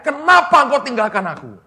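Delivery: high-pitched mock shout to God; imitated cry. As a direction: act out crying out in anguish. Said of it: "Bayangin sampai dia teriak".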